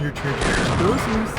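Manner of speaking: put-on lisping like a toddler; baby speak. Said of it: "you're just doing baby speak".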